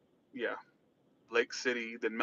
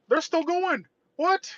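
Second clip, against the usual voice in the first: surprised high; 14 semitones higher, 3 dB louder, slower than usual. Real, not acted. Reacting to a crash in traffic.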